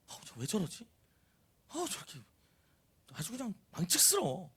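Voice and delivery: hushed, appalled grumble; disapproving onlooker. Acted. Michal watching David dance, quietly disgusted. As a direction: grumble it quietly as a scandalized observer. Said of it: "이렇게 쳐다보고 있는 거예요".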